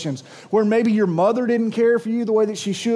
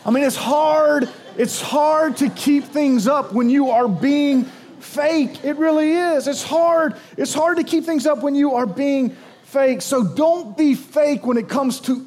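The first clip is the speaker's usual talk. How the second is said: preaching at full force; 5 semitones higher than usual. Real, not acted. Preacher driving point home.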